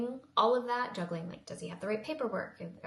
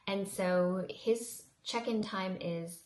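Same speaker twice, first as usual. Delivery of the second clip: talking with hair in mouth; words round stray hair in mouth; much slower than usual. Real, not acted. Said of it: "I have, like, hair in my mouth".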